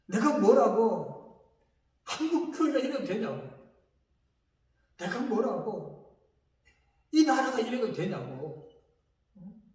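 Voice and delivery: reenacting his angry complaint to God; retold complaining rant. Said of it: "이렇게 불평하고 원망하고".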